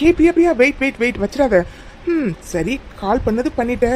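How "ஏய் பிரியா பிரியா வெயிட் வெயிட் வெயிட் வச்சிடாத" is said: high, hurried plea to wait; urgent calling out. Acted. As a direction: catch her before she hangs up. Stops her hanging up. (அவசரமாக அழைத்து)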